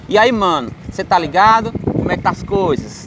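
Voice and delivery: lightly imitated São Paulo slang; a hint of a São Paulo accent. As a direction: greet like a casual São Paulo guy. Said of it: "Tipo assim".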